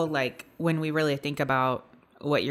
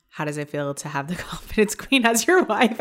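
laughing while reading; 3 semitones higher, 5 dB louder than usual. Real, not acted. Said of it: "can't even say that with a fucking straight face".

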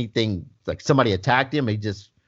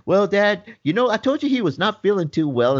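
higher, roundabout retold son voice; stalling son; 8 semitones higher than usual. Son putting off bad news to dad, stalling. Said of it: "He's going through this whole spiel".

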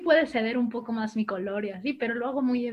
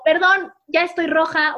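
slow, louder, higher admission of embarrassment; owning the blush; 5 semitones higher, 7 dB louder than usual. Retold or imitated. On her show, admitting she's blushing, slow and louder. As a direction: own the mistake out loud, drawn out. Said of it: "me la riego y digo".

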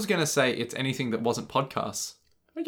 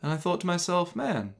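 author impression; 5 semitones higher than usual. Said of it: "they're just like".

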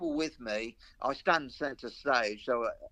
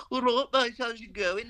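much higher, mock Black Country greeting; stupid Black Country accent; 12 semitones higher, 4 dB louder than usual. Mocking actors who fake his Black Country accent, pitched high. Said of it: "put on some sort of stupid".

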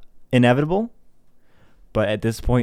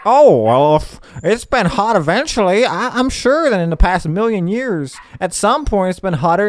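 higher, mocking imitation; exaggerated higher-pitched mock argument; mock science denier; 6 semitones higher, 3 dB louder than usual. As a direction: mimic a dismissive skeptic making excuses. Mimics climate science deniers.

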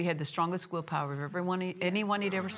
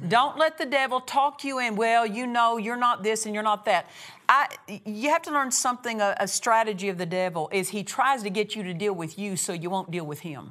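preach; 3 semitones higher, 4 dB louder than usual. Real, not acted. Preaches against the devil.

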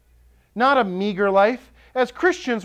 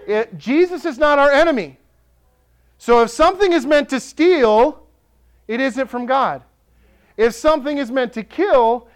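louder, driving repeated phrases; rising preaching; 2 semitones higher, 3 dB louder than usual. Acted. Pastor warning the church about the enemy, rising. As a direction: press each line harder. Preaching, builds on verse ten.

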